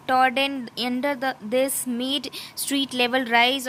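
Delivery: slow, deliberate reading of English text; slow textbook reading. Acted. Teacher reading the textbook passage to students, slow and careful. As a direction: read it out word by word, slowly.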